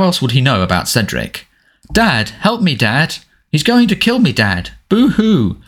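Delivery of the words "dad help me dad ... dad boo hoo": mock-crying plea, jumping very high; whimpering mockery. A narrator's reading. Dudley imitating his cousin's nightmare, high mock whimper. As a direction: squeal in fake terror like a frightened child. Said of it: "whimpering voice".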